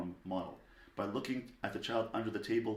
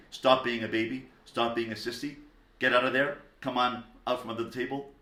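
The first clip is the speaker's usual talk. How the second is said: louder mock scolding of a child; a louder, impatient telling-off; 6 dB louder than usual. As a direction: bark mild orders as an exasperated parent. Scolding a child, then rejected.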